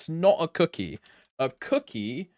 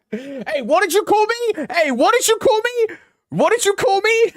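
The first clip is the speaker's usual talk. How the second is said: high, loud mock-indignant yelling; mock outrage; 10 dB louder than usual. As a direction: play-act being offended, shouting it out. Mock outraged at being insulted.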